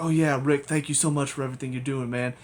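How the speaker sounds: hammed-up overeager gratitude; mock grateful suck-up. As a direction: lightly imitate someone overdoing the thanks. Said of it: "that's acting all like".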